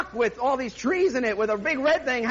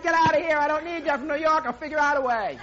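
mock angry shout; 3 semitones higher, 3 dB louder than usual. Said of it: "And I got so mad".

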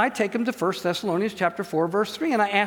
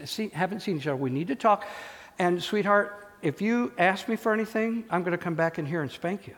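gentle firm father. Retold or imitated.

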